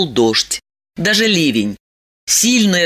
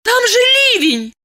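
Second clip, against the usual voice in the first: much higher, startled cry; surprised. Acted. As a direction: blurt it out in disbelief. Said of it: "удивилась Диана".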